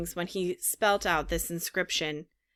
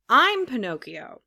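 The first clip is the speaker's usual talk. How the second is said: higher, louder eager announcement; excited shout; 4 semitones higher, 5 dB louder than usual. A narrator's reading. Puppet naming himself to the pigeon, excited shout. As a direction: burst out with who you are. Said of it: "shouted the puppet".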